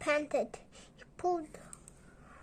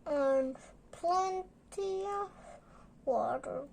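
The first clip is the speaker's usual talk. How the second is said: more clearly. Shown as a demonstration. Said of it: "Can you say it more clearly?".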